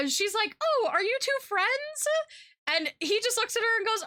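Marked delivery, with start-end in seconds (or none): 0.6-2.1 put-on high, sweet little-old-lady voice; sweet grandma voice. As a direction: voice the surprised grandmother, much higher. Grandma voiced in retold story.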